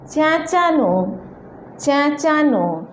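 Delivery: चेंचानो with the first vowel said a little through the nose; nasal vowel. Shown as a demonstration. Teacher demonstrates the nasal sound in चेंचानो to learners. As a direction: nasalize the start of चेंचानो, then a clear नो. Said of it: "थोड़ा सा नाक से बोलेंगे".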